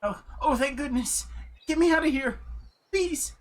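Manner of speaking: put-on high, pleading old lady voice; man doing granny voice. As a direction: redo it as a frail old woman. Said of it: "let me do the old lady voice".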